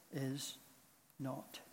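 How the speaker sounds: hushed, halting pronouncement; whispered judgment. A narrator's reading. Echo gives the lost soul its final judgment, whispering. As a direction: let it sink toward a whisper, long pauses between words. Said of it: "whispering the most horrifying of all judgments".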